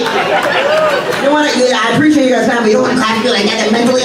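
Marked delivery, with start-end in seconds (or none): 0.0-1.5 drawn-out squeal. Acted. Mock warning drawn out, very high.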